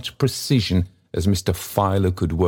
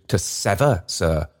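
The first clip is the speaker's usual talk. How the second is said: sharp rebuke. Acted. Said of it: "with great asperity".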